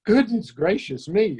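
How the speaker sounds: high, startled cry of surprise; startled exclamation. Acted. Faun startled at seeing Lucy, surprised exclamation. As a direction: blurt it out in a fluster. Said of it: "exclaimed the faun".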